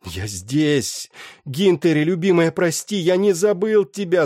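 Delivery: shouting. Acted. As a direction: cry out to her with all your heart. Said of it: "закричал Андрюс".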